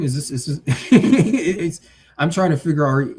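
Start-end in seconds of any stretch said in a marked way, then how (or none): 0.0-1.8 laughing in disbelief. Real, not acted. Laughing at absurd chat message.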